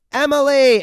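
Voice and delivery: high, loud cry of a name; mock scream. Sister bursting into the barn, mock scream. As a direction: imitate a sister screaming for her. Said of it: "her sister runs in for a split second and screams".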